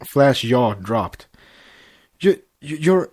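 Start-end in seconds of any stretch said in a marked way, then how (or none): 2.2-3.1 stammering, voice climbing higher; stuttering Flash. Acted. Flash stammers at Twilight's pregnancy news, in stunned stutter. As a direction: trip over the words in shock. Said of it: "he, he stuttered".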